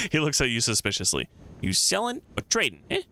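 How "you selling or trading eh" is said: higher, wheedling scavenger voice; a lightly voiced shifty little man; squeaky, prying street rat; suspicious beggar. Voicing Quint's suspicious questions.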